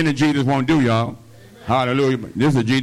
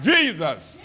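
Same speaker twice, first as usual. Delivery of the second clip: raised cry of "Jesus!"; 8 semitones higher than usual. Shown as a demonstration. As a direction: lift the name in a pleading call. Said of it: "You need to cry out".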